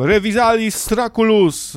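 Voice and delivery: mock spell shout. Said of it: "krzyknął tam".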